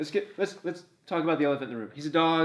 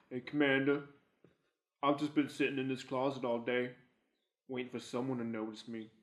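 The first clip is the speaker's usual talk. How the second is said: understated needy loner, trailing softer; lightly voiced Jacob; 5 dB quieter than usual. Podcaster mimics a neglected crewmate waiting in a closet, mildly mopey. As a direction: play a lonely crewmate quietly asking for attention. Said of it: "all he does is sit in the one room, go like".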